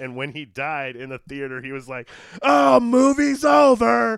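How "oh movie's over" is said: super loud, very high, shrill voice. Retelling what a man said in the theater when a character died, super loud. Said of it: "Like super loud".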